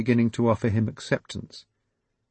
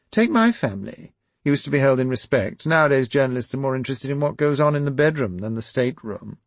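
much higher voice of a complaining royal; haughty princess; 6 semitones higher, 5 dB louder than usual. Acted. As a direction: lift the voice into a put-upon princess.

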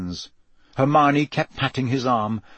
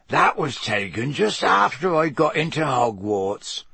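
croaked; 2 semitones higher than usual. Acted. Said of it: "Hagrid croaked".

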